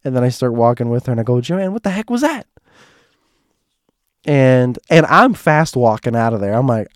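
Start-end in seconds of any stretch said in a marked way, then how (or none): 1.4-2.5 high-pitched incredulous question; retold disbelief. Narrator confronts Joanne after the police run-in, incredulous. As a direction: climb high in mock bafflement.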